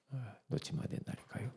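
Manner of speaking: soft, quick murmur; hushed insistence. Acted. Preacher repeating the warning softly to the congregation. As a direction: press the point under the breath.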